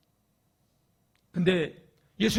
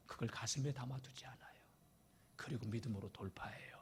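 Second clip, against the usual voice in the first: hushed, confiding whisper; 5 semitones lower, 14 dB quieter than usual. Acted. Preacher whispers to the congregation about Peter's faith. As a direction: lean in and tell the secret softly.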